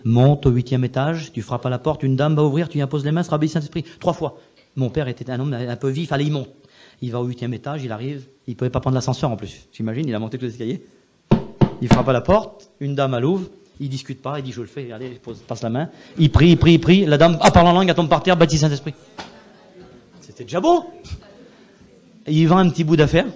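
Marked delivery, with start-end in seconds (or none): 0.1-3.8 voice of the Holy Spirit. Retold or imitated. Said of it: "le Saint-Esprit". 16.2-18.9 excited climax. A narrator's reading. Climax of the miracle story.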